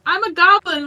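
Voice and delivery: voicing the bat goblin. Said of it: "and he's like".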